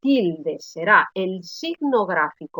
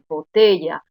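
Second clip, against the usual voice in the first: "botella" repeated with weight on TE; teacher showing "botella" as bo-TE-lla; stress on middle syllable; 4 semitones lower, 3 dB louder than usual. Shown as a demonstration. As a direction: stress the TE in "botella", falling after it. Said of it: "aquí la sílaba tónica está colocada".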